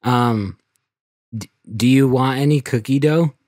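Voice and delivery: high, loud, stammering schoolkid; nervous kid voice. Acted. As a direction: push it out like a scared third grader. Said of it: "you're the kid".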